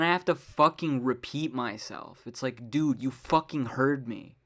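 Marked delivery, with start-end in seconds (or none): 2.7-4.4 loud, fed-up comeback, swear word punched; retold irritated snap-back; exasperated retort. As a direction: call them out, loud and annoyed. Exasperated retort to people feigning deafness.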